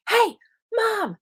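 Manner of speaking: bratty preteen "Hey, Mom"; snippy tone. Shown as a demonstration. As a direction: greet mom with a put-upon teenage attitude. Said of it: "But if she's like".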